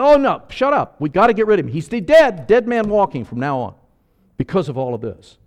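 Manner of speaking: high, loud "shut up" and plotting; angry dismissal. Acted. Council member silencing Joseph of Arimathea, high and loud. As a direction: shout him down.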